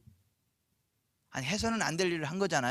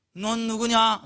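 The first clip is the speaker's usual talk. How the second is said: put-on a touch of startled old father, louder; mildly voiced shocked question; 3 semitones higher, 6 dB louder, much slower than usual. Isaac hears a second son at the door, startled. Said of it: "이삭이 깜짝 놀래가지고".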